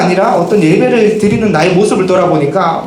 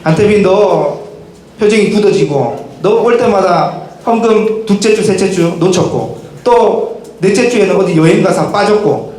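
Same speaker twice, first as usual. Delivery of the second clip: threatening pagan god. Acted. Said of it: "이방신들처럼".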